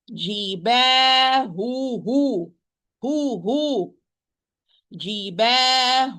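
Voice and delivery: "Jibahuhum" slow, each hu given its own h and short vowel; careful demo of the doubled h; both has clear. Shown as a demonstration. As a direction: spell out hu, hu as two separate breaths in "Jibahuhum". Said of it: "So take care".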